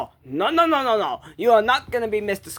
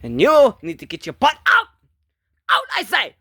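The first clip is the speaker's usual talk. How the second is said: shouted order; 3 semitones higher than usual. Acted. Ordering the reindeer to get out, shouting. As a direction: shout them out of the room.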